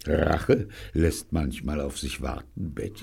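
hushed mock-ominous warning; mock menace. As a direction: threaten quietly, playfully sinister. Neil teasingly threatens Betty.

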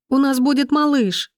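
high, teary cry of joy; wife crying with joy; bursting into tears. A narrator's reading. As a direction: let happy tears break through. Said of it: "расплакалась она".

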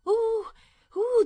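very high, loud mock oohing; exaggerated fake amazement; feigned interest. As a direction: ooh in put-on wonder. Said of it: "fingevo interesse solo alla mia caccia".

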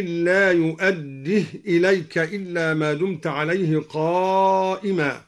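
بقنطار as "biqintir" and بدينار as "bidinir", the long a tilted toward e; imala on بقنطار and بدينار. Shown as a demonstration. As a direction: tilt the final a of both words toward e. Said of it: "أمال اللفظين، هكذا".

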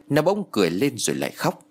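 plain reading voice

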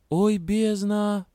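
high slow groan of "Ой, бездна"; drawn-out dismay. A narrator's reading. Heroine thinks to herself, a drawn-out dismayed groan. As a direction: stretch out "Ой" in dismay. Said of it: "подумала я".

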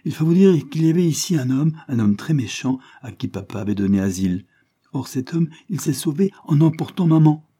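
a hint of an indignant little girl; earnest little girl. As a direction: tell it eagerly, high and animated. Child tells of mother's abduction.

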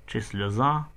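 usual speaking voice

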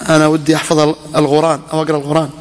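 quick imitation, gh replacing q in both القرآن; qaf said as ghain. Teacher quotes a man who cannot say qaf, القرآن becoming "al-ghuran". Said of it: "أن يقول قرآن".

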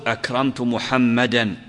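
محمدا slow, ending clearly in -an; accusative example. Shown as a demonstration. Teacher gives a slow accusative example. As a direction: say أكرمت محمدا slowly with the -an ending. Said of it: "وأحيانًا تقول".

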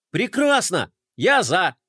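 high, eager exclamation; excited cry. Acted. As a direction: blurt it out eagerly. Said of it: "вскричал Флай".

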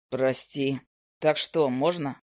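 a calm offer in a low male voice; low hunter. Acted.

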